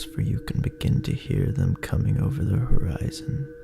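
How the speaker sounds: ordinary delivery, nothing marked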